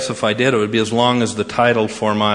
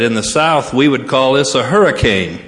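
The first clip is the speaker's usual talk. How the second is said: higher, louder caller's protest; mock protest; 4 semitones higher, 5 dB louder than usual. Southern student complaining to the president about the wind, mock protest. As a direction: build the protest to an emphatic punchline.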